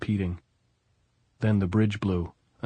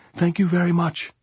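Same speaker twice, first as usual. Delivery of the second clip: high, loud sobbing thanks; choked cry; 10 semitones higher, 5 dB louder than usual. A narrator's reading. Maria calling her thanks up the hill, choked high cry. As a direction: burst out thanking through tears. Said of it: "then choking again".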